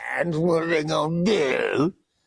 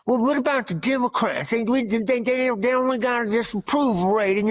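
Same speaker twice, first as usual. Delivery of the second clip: mocking TV pundit; 6 semitones higher than usual. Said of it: "what the fucking idiots say on T V".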